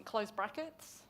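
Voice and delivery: measured read-out for a typist; slow dictation. Real, not acted. Councillor finishing motion wording for whoever's typing, slow dictation. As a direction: dictate punctuation and wording phrase by phrase. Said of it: "I'll read this out slowly".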